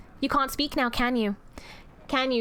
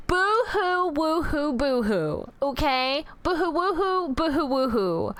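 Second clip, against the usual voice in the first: sing-song taunting boo-hoo; mock the crybabies; 3 semitones higher than usual. Demoness taunting her jailed chat with mock crying.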